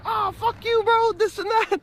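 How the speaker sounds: high, mock-angry friend's retort; hammed-up sulky swearing back; grumpy Cho.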